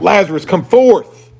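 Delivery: high, loud, drawn-out summons; crying out. Acted. Preacher answers what Jesus cried out, loud summons. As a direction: call it out slowly and loudly. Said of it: "What is it he cried out?".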